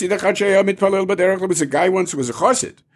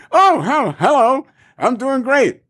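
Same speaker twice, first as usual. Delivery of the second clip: cheery reply; 8 semitones higher, slower than usual. Retold or imitated. Mock cheery reply to friend.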